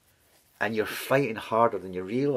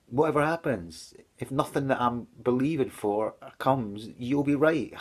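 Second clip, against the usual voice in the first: tearful pleading; 5 semitones higher than usual. Retold or imitated. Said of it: "crying my eyes out".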